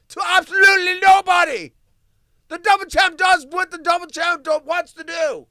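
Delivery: high, loud boasting ring-announcer shout; mock champion hype; hammed-up announcer. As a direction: bellow it like a fight promoter.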